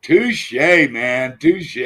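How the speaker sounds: high, delighted exclamation; excited touché. Real, not acted. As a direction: cheer the line, impressed. Cheers a viewer's quip.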